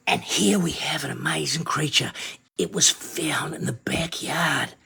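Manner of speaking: mock nature-documentary whisper; funny whisper voice. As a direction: hush it like a wildlife host showing a find. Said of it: "here we come with the funny voice".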